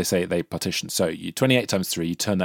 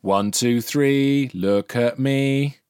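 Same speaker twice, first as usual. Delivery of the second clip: bright, bossy teacher calling the class; primary teacher voice; 5 semitones higher than usual. Pretend. Plays the schoolteacher for the class.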